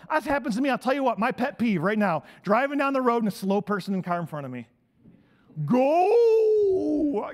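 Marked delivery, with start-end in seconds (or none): 5.7-7.3 sudden high shout of go; mock yell at driver. Preacher yelling at a slow driver through the windshield, loud. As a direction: bark it at the slow car.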